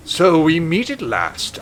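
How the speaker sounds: slow, drawn-out villain greeting; theatrical bad-guy entrance; big bad villain. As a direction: draw it out like an arch-villain. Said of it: "I'm choosing a different voice for him".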